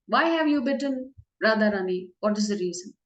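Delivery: a hint of a coy lady asking the snake; Krishna as Vindhyavali. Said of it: "So as Vindhyavali, he asks".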